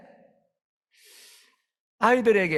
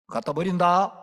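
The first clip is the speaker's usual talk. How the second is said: louder, rising warning; mock threat; 4 semitones higher, 5 dB louder than usual. Preacher at the door threatening to leave the child. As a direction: dare her to test you.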